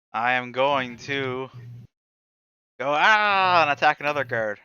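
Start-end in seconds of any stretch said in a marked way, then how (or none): 2.9-3.6 half-hearted battle cry "aah"; a drawn-out "ah", raised a little; mild mock yell. Player charging another guard, mild yell. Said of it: "Don't yell".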